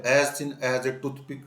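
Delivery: slow and loud, word by word; emphatic slow reading; slow dictation. Shown as a demonstration. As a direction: dictate it to the class. Teacher reads example slowly.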